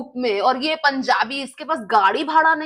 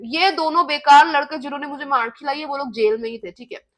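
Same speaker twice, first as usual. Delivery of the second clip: ordinary delivery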